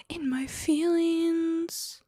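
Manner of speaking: slow breathy whisper; whispered echo. Real, not acted. Repeating her mood to the stream in a whisper. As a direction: whisper it back to yourself, slowly.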